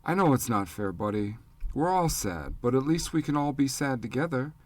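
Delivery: a father gently consoles his screaming son; comforting. Acted. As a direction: soften it to calm a crying boy. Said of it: "trying to comfort Pete".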